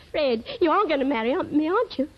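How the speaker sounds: ordinary delivery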